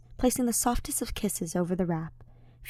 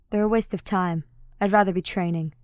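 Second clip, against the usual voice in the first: disdainful; 3 dB louder than usual. Acted.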